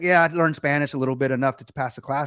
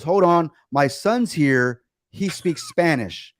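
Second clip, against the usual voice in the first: slow, deliberate delivery of a retold quote; drawn-out announcement; 2 semitones higher, much slower than usual. Dad telling the phone agent his son can translate, drawn-out announcement. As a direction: announce it word by word, stretched out.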